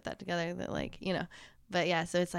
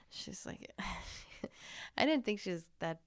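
whispered aside; 6 dB quieter than usual. Real, not acted. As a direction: drop to a confiding whisper. Gossiping about a drunk girl.

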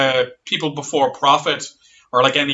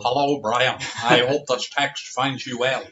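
Jerry; 4 semitones lower, 4 dB quieter than usual. Pretend. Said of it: "I got a text from Jerry".

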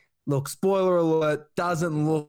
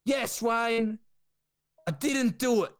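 much higher, flustered denial; panicked Ricky; 8 semitones higher than usual. Retold or imitated. Ricky denying the scandal to Wayne, high and panicky. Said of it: "Ricky's like".

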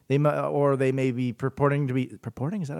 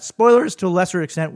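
"Spoilers to a lesser extent" with the voice jumping higher and a bit louder; voice going up; 4 semitones higher, 4 dB louder than usual. Real, not acted. Host's voice cracks upward mid-rant, higher pitch. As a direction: let "Spoilers" pop up high in pitch. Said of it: "Woo, my voice went up there".

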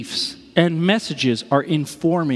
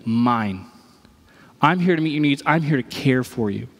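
tender; 6 semitones lower than usual. Retold or imitated. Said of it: "He looks and says".

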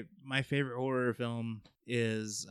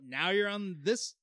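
gleeful laughing jeer; laughing taunt; 7 semitones higher, 5 dB louder than usual. Retold or imitated. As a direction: laugh it out, gloating.

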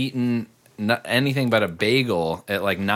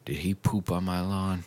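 put-on quiet, lower old-lady voice; quoting the old neighbor; 5 semitones lower, 8 dB quieter than usual. Retelling the neighbor lady, low mumbled voice. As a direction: mimic the senile neighbor softly. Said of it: "and she goes".

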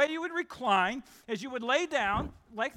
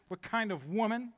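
condescending. Acted. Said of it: "In a condescending way".

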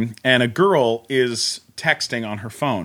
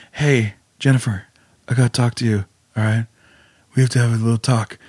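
ex-husband quote; 4 semitones lower than usual. Retold or imitated. Ex-husband voiced in retold scene.

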